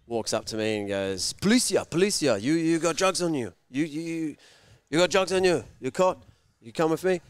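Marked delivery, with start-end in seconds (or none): 1.4-7.2 higher, urgent officer's challenge; insistent, raised-pitch police accusation; demanding policeman. Retold or imitated. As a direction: play a pushy cop accosting someone. Acted officer accosting him in story.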